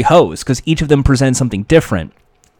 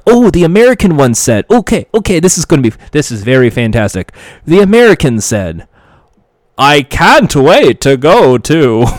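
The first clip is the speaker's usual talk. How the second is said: a host hamming a bad American accent, louder; mock bad American accent; 4 dB louder than usual. The host reading a card, bad American accent. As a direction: fumble through a clumsy American accent. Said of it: "he would try and do an accent".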